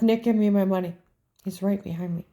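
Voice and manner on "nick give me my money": raised voice, urgent but controlled; firm retold demand. Customer to teller Nick, firm raised demand. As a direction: press the teller, a bit louder.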